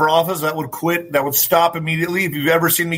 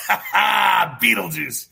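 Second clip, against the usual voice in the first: drawn-out laughing call; much slower than usual. Real, not acted. Host mocking the mayor to viewers, laughing slow call. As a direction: stretch Beetlejuice out very slowly through a laugh, half shouted. Laughing, stretched repeat of the nickname.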